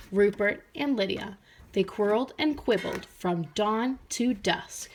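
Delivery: steady storybook narration; gentle read-aloud voice; reading to children. A narrator's reading. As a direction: read it like a picture book at circle time.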